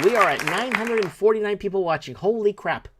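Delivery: real thrill, pitched high and loud; excited announcement. Real, not acted. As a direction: announce it like a record broken. Repeats viewer count, amazed.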